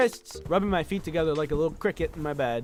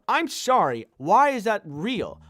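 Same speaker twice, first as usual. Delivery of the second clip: louder, incredulous rant; bitter disbelief; 5 dB louder, slower than usual. Real, not acted. Ranting at the insurance company, bitter disbelief. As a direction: demand an answer, fed up. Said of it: "I'm kinda bitter about it".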